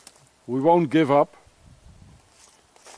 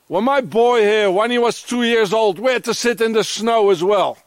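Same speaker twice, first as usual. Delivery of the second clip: raised, heated threats; real anger, still pitched up; angry threat; 5 semitones higher than usual. Real, not acted. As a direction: keep railing at them. Ranting at the Swiss authorities.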